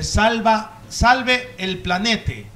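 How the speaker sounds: slow, drawn-out mock slogan; mock ad slogan, slowed right down; mock inclusive slogan. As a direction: read it out slow like a billboard. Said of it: "en una valla digan".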